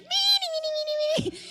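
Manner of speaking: squeaky high germ chorus; high cartoon germs chanting me; tiny germ voices. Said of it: "all I can hear is like".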